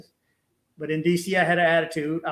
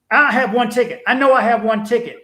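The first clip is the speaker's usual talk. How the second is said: loud, insistent protest; mock irate traveller at the rental counter; retold attitude; 3 semitones higher, 7 dB louder than usual. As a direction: argue you have one ticket, heated. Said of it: "And I caught serious attitude".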